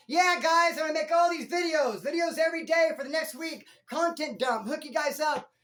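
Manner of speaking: loud, high hyped-up promise; shouting big plans at the viewers; hype promise. Shown as a demonstration. Vlogger to viewers, a loud high hyped-up promise. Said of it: "Do you know why".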